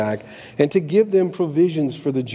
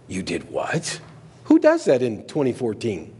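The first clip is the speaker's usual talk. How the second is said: mocking critic; 3 semitones lower than usual. Preacher mimics critics scoffing at his son. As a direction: sneer it like a scornful outsider.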